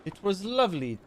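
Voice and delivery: a clumsy mock French accent on "lovely"; half-hearted French accent; attempted French accent. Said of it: "I can't do a French accent".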